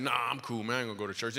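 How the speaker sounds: mild, casual brush-off; polite refusal. Retold or imitated. Comic turning down the manager's church invitation, politely. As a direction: turn it down politely and easily. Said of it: "So I just politely said".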